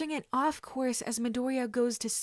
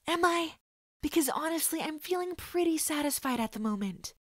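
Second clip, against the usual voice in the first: higher, cocky mocking reply; smug taunt; 7 semitones higher than usual. The boy mocking the bleeding kidnapper, smug. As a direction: tease him with a smirk.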